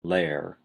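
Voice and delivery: "layer" as one syllable, "lair", lightly stressed; lesser stress. Shown as a demonstration. Teacher picks out the third syllable, lesser stress. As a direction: set layer apart with secondary weight. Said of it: "a lesser stress on the third syllable".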